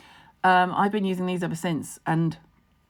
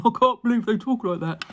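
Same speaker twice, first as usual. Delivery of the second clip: higher-pitched imitated amazement; mock disbelief; 4 semitones higher than usual. Quoting Ben on Valley Girls, mock disbelief. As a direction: act out someone astonished by how people talk. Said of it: "he was literally going".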